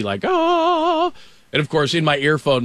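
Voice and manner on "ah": high, sustained mock-heavenly "ahh"; imitated angelic chord; awed "ah". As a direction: sing out a long high note of awe. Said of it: "Jesus parting the sea".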